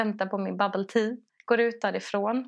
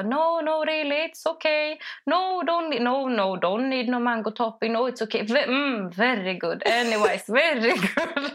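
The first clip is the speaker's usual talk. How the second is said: flustered polite refusal; 2 semitones higher than usual. Retold or imitated. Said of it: "så jag bara".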